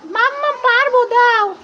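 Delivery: put-on lightly high, hushed kid voice; a kid plotting a secret; conspiring child.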